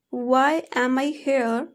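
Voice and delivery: slow, with "am" said in full; strong form. Shown as a demonstration. Teacher showing learners the full form, slow separate "am". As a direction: give "am" its whole vowel, word by word. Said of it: "For example".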